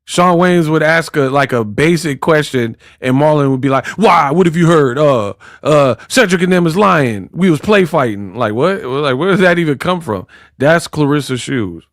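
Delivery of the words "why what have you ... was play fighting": slightly raised, hurried-to-explain protest; mock defensive. Marlon answering Shawn's basic question, mock defensive. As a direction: play a touch of comic defensiveness. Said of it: "She get that defensive".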